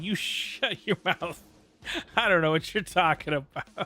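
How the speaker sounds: teasing fake denial, giggling; laughing denial. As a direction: deny it while cracking up. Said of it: "and I'm like".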